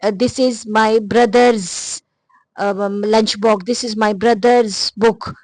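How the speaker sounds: very slow, word by word example sentence; slow dictation. Shown as a demonstration. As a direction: read the example slowly for learners. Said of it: "जो position के लिए use होता है". (उदाहरण वाक्य को बहुत धीरे, शब्द-शब्द बोलना)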